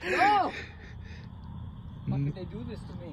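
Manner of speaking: put-on high wail in a Cuban-slipping Russian accent; quick, hammed-up Cuban-tinged Russian accent. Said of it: "my accent went from, like, Russian to Cuban".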